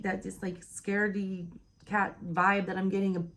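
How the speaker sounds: talking through hiccups; hiccuping between words. Real, not acted. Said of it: "I cannot stop hiccuping now".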